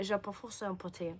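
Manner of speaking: French spoken by an English-speaking learner; learner's French. Shown as a demonstration. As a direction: try out a little beginner French. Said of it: "I'm learning French".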